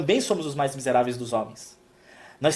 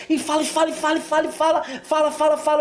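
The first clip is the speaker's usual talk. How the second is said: mock nonstop chatter; 10 semitones higher, faster than usual. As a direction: mimic her talking on and on. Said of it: "E ela chega pra mim contando".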